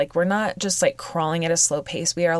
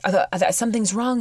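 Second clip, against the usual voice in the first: mildly raised, panicky retelling; retold panic; 3 semitones higher than usual. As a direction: imitate his rising panic, lightly. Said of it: "freaked out too".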